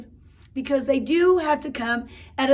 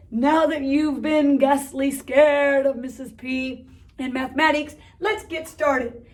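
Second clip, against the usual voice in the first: spooky voice. Acted. Spooky teacher voice, slow.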